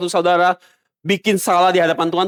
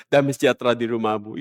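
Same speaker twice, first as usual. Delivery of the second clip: mock pastor's blessing; 9 semitones lower, 4 dB quieter than usual. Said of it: "pendeta bilang".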